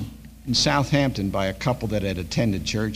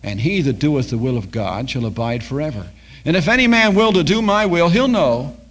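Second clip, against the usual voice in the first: preaching; 3 dB louder than usual. Acted. Pastor quoting scripture to the flock, in full preaching voice. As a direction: lift the verse up to the congregation.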